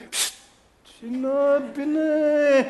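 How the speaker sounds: high, slow shushing parent; mock strict parent; imitating a Filipino parent. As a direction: hush the child sharply.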